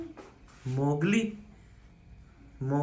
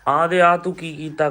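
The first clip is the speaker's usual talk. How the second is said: loud, raised parental telling-off; scolding; 3 semitones higher, 7 dB louder than usual. Real, not acted. Father scolding his son for scribbling on the wall, loud.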